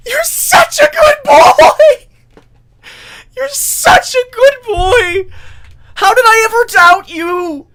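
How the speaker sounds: very high, very loud, near-crying shout; ecstatic proud cheering. Acted. Quoting a character cheering on a swimmer, ecstatic tearful shouting. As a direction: squeal praise at the top of your voice.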